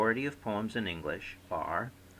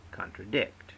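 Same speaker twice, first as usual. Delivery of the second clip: "contradict" with two slack syllables, then stressed "dict"; stress on last syllable. Shown as a demonstration. Teacher giving an anapest example, "contradict" stressed on its last syllable. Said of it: "two slack followed by one stressed".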